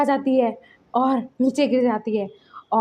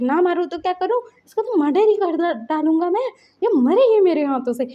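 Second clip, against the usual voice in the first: angry; 5 semitones higher, 3 dB louder than usual. Retold or imitated. Enraged father refusing to calm.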